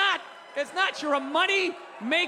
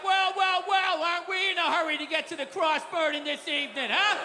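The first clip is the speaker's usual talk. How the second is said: smug cop. Retold or imitated. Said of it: "the cop would be coming up like".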